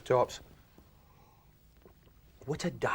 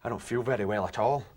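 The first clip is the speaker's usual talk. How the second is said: queasy groan; 7 semitones lower than usual. Retold or imitated. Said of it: "I'm like".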